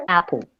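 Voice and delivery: "Apple" starting on a short blended A-E; subtle A-E vowel. Shown as a demonstration. Teacher insists to a doubting student, subtle A-E vowel. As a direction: merge A and E lightly at the start of "Apple". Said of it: "Sí, escuchen, fíjense".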